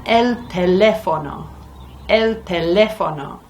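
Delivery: "el teléfono" with the stress on the second syllable, té. Shown as a demonstration. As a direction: lean on the té in "teléfono". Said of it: "that's where the stress of the word will go".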